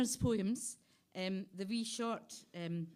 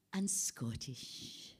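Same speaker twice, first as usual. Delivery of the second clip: whisper; 6 semitones lower, 8 dB quieter, slower than usual. Acted. Poem reading, whispered aside.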